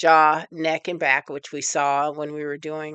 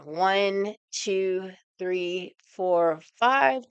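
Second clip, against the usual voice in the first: counting hold; 3 dB quieter, much slower than usual. Shown as a demonstration. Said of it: "pulling 'em up".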